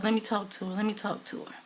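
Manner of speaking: soft, collected retold request; understated, hushed calm; cool and calm. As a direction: act out quiet composure. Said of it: "how cool and calm, collected he was".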